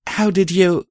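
high, puzzled question; baffled, unfinished question; confused. A narrator's reading. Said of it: "I said, confused".

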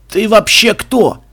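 loud, high and drawn-out demand; strained wheeze. A narrator's reading. Mexican on the floor challenging his attacker, loud strained wheeze. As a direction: wheeze it out slowly at high volume. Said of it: "просипел лежащий на полу мексиканец".

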